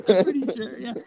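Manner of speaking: giggling through words; laughing. Real, not acted. Guest laughing at the free throws, giggling. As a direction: laugh while speaking.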